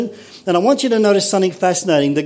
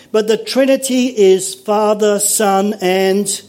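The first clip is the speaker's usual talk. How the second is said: raised pitch, sentence left open on AND; leading prompt; 4 semitones higher, slower than usual. Real, not acted. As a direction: leave AND hanging for them to finish. Cueing congregation to finish the sentence.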